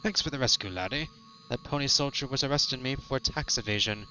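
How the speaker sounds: lightly voiced old sea captain; Captain Moby. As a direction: play a grateful boat captain with laddie talk. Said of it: "we have Captain Moby over here".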